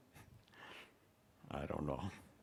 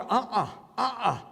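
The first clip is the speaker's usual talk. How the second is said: laughing no; 11 semitones higher, 7 dB louder than usual. Real, not acted. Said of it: "preacher rejects it".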